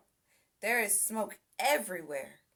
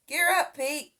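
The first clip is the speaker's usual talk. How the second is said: called order; 7 semitones higher, 7 dB louder than usual. A narrator's reading. Firefighter calls to Pete.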